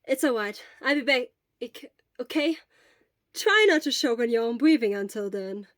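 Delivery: quick, eager offer of help; lightly voiced worried friend. Hisashi offers to fetch medicine for sick Shura, eager and caring.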